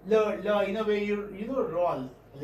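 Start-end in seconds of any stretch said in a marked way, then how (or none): 0.1-0.6 "la" as a separate syllable, tongue-tip L; lateral la. Shown as a demonstration. Teacher demonstrating a lateral sound, "la" in isolated syllables. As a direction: sound out "la, la" with air round the tongue's sides. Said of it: "La is a lateral sound".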